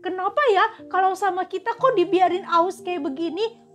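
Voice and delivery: sulky questioning, mock despair; doubting complaint. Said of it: "bertanya-tanya".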